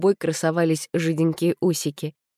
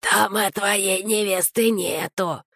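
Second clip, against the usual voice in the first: shouted; 4 semitones higher, slower than usual. A narrator's reading. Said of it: "прокричал на ухо Костику".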